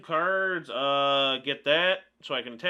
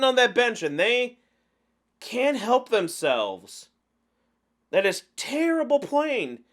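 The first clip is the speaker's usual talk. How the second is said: emphatic ranting, leaning hard on key words; exasperated rant. Real, not acted. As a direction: rant in disbelief at bad play. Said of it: "Sorry that I'm ranting".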